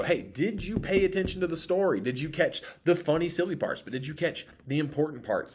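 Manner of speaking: put-on bright, high quiz-host voice to kids; excited game host. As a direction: hype them up like a game show host. Quizzing kids in review game.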